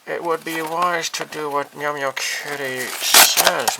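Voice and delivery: slow, high, loud playful warning; mock ominous kitty. Vlogger playing the kitty model, mock menacing. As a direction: threaten like a tiny cat overlord.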